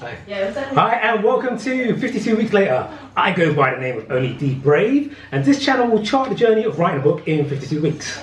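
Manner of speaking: enthusiastic presenter intro; over the top host. Shown as a demonstration. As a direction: bigger showy welcome. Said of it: "really go over the top".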